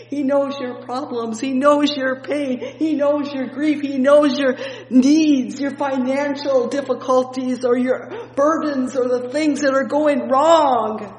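escalating gospel litany; building preaching litany. Acted.

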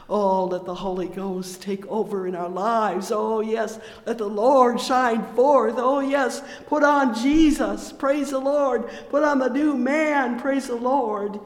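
loud, high, impassioned praise shouts; shouted revival preaching; full-force preaching. Acted. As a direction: lift the room with every praise. Preaching climax, praise exclamations.

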